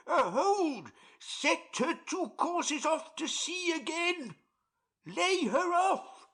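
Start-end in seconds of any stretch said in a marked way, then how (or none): 5.1-6.3 shouted order. Acted. Boatswain orders in the storm.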